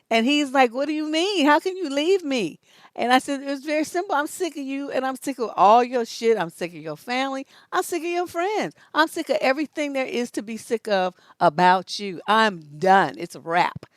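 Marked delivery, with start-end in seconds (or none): 0.7-2.6 high, loud imitation of disbelief; mock dismay. Imitating the boyfriend being left, mock dismay. Acts the boyfriend's shocked protest. 3.4-13.9 emphatic list of grievances, pitch jumping about; retold fed-up rant. Retelling the breakup speech to a boyfriend, fed up.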